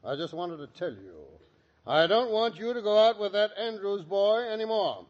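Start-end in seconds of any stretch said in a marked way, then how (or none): 1.9-5.1 raised, insistent fatherly order; firm and cross, brooking no argument; stern forbidding. Acted. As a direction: lay down the law to a daughter. Father forbids daughter, allows no argument.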